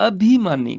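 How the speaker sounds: ਅਭਿਮਾਨੀ with the bhi clearly sounded; short i. Shown as a demonstration. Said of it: "ਪੱਬੇ ਨੂੰ ਸਿਆਰੀ ਹੈਗੀ ਆ".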